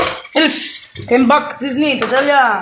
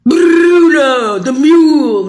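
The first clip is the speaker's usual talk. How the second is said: shouting a name; 2 semitones higher, 6 dB louder, much slower than usual. Real, not acted. Ranting at listeners.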